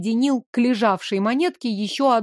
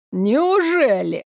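slow sneering question; mock the girl with a drawn-out sneer; 2 semitones higher, much slower than usual. A narrator's reading. Guard mocks the captured girl, slow and sneering. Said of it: "глумливо усмехнулся стражник".

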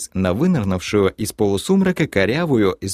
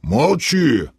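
sharp, higher command; guard's shushing; 5 semitones higher than usual. A narrator's reading. Burly guard silencing the creature, sharp shushing. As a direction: cut the prisoner off. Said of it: "шикнул на него дюжий страж".

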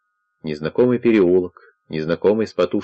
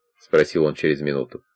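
plain reading voice

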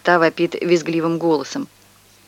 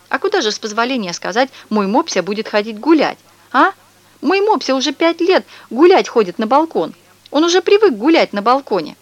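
put-on higher, louder fussy old lady voice; shrill indignant neighbour; 7 semitones higher, 3 dB louder than usual. A narrator's reading. Neighbour protests to mother about her dog, in a higher, louder lady's voice. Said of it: "снова крикнула Мария Петровна".

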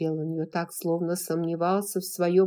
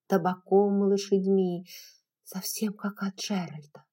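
ordinary delivery, nothing marked

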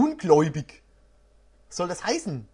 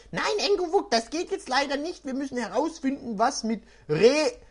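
put-on higher, earnest young hero; lightly voiced boy; 5 semitones higher than usual. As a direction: plead a little as the boy. Basti voice in game.

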